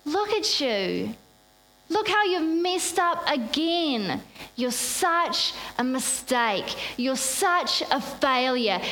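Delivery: sneering inner critic, slowed down; voice of shame. Pretend. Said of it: "it says".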